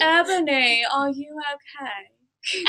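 slow, softening mock-gothic question; half-hearted goth impression, trailing into laughter. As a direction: drag it out like a dramatic goth. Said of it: "It has to sound gothic".

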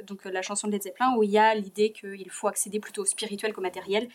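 usual speaking voice

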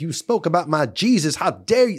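loud, high mock indignation; hammed-up fanatic taking offence; outraged zealot. Acts out outraged religious zealot.

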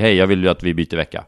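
imitating his ex in her normal Stockholm Swedish. Mock Stockholm voice of the ex asking to swap weeks. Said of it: "utan hon pratar ju".

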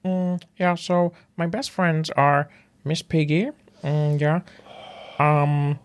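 a hint of Kermit telling a bedtime story; mild Kermit musing about his best friends; Kermit the Frog impression. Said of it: "Kermit the Frog".

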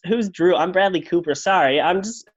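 light put-on American accent. Uninvited actor explains himself to hosts, American accent. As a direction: play an apologetic American celebrity. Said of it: "Has one American accent".

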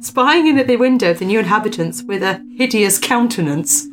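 measured storyteller's read-aloud; story narration. Acted. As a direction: read out an old ghost report with deliberate emphasis. Reads a ghost story aloud.

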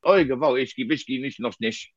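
fading fake Yiddish grumble; imitating dad ranting in made-up Yiddish; dad's mock rant. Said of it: "in a rant, he would throw in something like".

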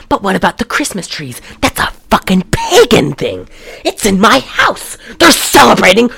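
insane mock rant, rising in pitch. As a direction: build to an outraged, hammed-up tirade. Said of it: "He sounds like he's insane".

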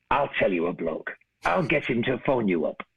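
put-on lightly done Manchester accent for a mate; retold friend in a rough Manchester accent. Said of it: "I'm doing Manchester".

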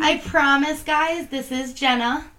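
croaky, creaky hoarse voice. Real, not acted. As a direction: talk through a croaky throat. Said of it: "I'm creaky and croaky".

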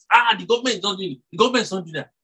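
quick mock grumble about the government; grumbling complaint. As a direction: rattle off a mild mock complaint. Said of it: "complain about the government".

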